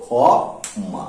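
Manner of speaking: খ মা as kho, long pause, ma; syllable-by-syllable pronunciation. Shown as a demonstration. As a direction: sound out খ মা in two separated syllables. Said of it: "তাহলে উচ্চারণ হবে কিন্তু".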